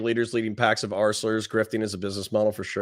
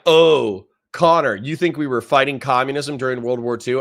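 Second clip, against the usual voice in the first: mocking critic; 3 semitones higher, 5 dB louder than usual. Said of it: "If you're like".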